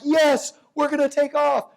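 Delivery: mock the boom prophets; hammed-up cheerful forecaster; optimists. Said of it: "some people are like".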